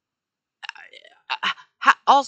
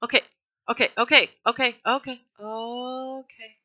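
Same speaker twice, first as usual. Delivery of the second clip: settling himself with repeated okays; calming down; 3 semitones higher than usual. Real, not acted. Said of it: "I refuse to die".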